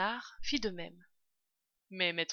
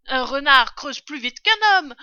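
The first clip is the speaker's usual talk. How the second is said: loud, raised proclamation; excited yell; 6 semitones higher, 14 dB louder than usual. A narrator's reading. Father fox rallies family to dig, yelling. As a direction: shout it out to rally everyone. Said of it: "hurla maître Renard".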